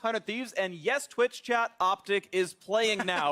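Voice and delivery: announcer introduction. Real, not acted. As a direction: introduce the teams with broadcast hype.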